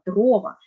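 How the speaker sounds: дрова stressed on ДРО; stress on first syllable. Shown as a demonstration. Teacher confirms the rule, дрова stressed on first syllable. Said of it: "Маємо наголошувати перший склад".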